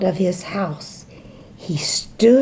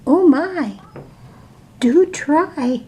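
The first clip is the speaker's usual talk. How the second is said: little fly; 6 semitones higher, slower than usual. Acted. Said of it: "said the fly".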